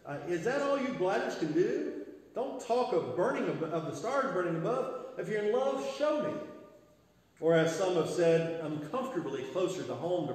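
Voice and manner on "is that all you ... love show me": lightly voiced Eliza, higher, no British accent; a hint of an exasperated Eliza demanding proof; exasperated young woman, higher, only lightly acted; Eliza Doolittle, no accent. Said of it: "I won't do it in a British accent".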